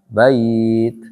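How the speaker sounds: "Bait" cut off on the t, with no vowel after; paused form with sukun. Shown as a demonstration. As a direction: stop dead on the t of "Bait". ("Bait" dibaca mati tanpa harakat)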